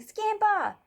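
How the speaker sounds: bursting in with a happy yell; shouting. Acted. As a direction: call it out as she bursts in.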